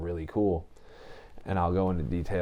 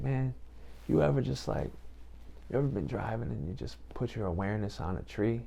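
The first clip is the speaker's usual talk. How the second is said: laid-back cool dude; 3 semitones higher, 5 dB quieter than usual. Retold or imitated. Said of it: "he talks like that".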